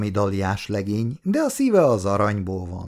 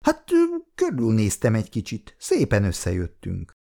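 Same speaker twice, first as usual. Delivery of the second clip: embarrassed. Acted. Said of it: "Kancler zavartan válaszolta".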